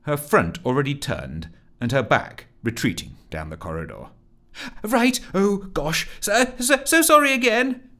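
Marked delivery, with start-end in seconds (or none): 4.8-7.9 high, flustered stammering apology; squeaky embarrassed apology; muttered apology. Acted. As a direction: fumble through a high-pitched sorry. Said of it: "muttered Rusty".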